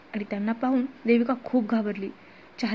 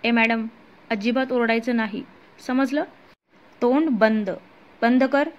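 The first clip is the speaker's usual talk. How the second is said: thug threat. Acted. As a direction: snarl it at her with a gun to her head. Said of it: "गुंडानं तिच्या डोक्यावर बंदूक ताणून धरली".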